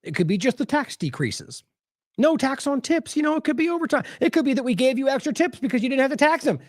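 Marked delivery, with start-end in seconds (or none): 2.2-6.6 higher, sing-song mock of the official; mocking paraphrase. Host mocking the Treasury Secretary's excuses, higher and sarcastic. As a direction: parrot his excuses with scorn. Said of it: "he says the two thousand dividend".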